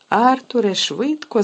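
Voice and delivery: loud, high urgent shout. Acted. Mother shouting at her husband to hurry, urgent shout. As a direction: yell for him to hurry. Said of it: "закричала місіс Візлі".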